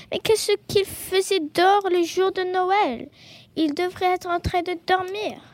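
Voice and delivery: scandalised badger fussing; indignant astonishment. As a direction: ask it loudly, thoroughly taken aback. Badger astonished, disapproving at dinner.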